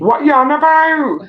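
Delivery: loud, high, indignant burst; mock outrage. Co-host replies to a slight on the Birmingham accent, mock outrage. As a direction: shout it out in mock disbelief.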